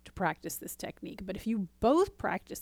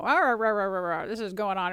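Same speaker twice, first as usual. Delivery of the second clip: mock frustrated rant; 5 dB louder than usual. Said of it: "comes into your office all frustrated".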